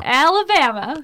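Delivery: slow, careful Alabama drawl; Southern accent try. Shown as a demonstration. Friend copies the host's Southern accent demo. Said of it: "Yeah, there you go".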